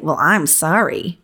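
slow, sarcastic "Well, I'm sorry."; snarky. Retold or imitated. Client hears an email apology as a snarky "sorry". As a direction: drag out "sorry" with a sneer. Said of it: "as you being snarky and saying".

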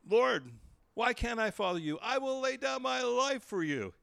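loud, high, impassioned vow; confident bravado. Retold or imitated. Peter vowing to follow Jesus anywhere, with confident bravado. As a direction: proclaim it like an overconfident disciple. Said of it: "Peter's confident bravado".

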